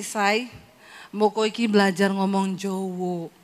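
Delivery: the husband nudging her to learn Javanese; husband's low voice. Retold or imitated.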